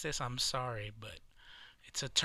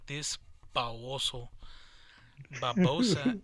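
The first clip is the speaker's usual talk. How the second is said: exasperated yell; 4 dB louder than usual. Retold or imitated. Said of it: "I was like".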